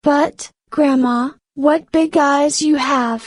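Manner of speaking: put-on a small girl puzzled at grandma; young girl.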